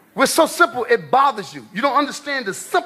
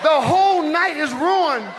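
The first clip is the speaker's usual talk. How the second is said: high, exasperated nagging wife; 4 semitones higher than usual. Retold or imitated. Wife scolding husband for a wrong turn, high and exasperated. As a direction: squeal like a fed-up wife in the car. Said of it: "This is you with your wife".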